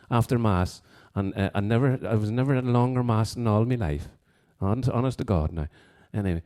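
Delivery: lilting Fermanagh accent; playful demonstration of a Fermanagh accent. Shown as a demonstration. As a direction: put on a sing-song Fermanagh lilt. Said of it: "that was my Fermanagh accent".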